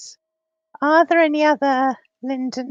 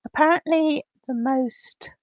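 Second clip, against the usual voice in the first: glitching audio. Real, not acted. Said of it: "my voice is distorted".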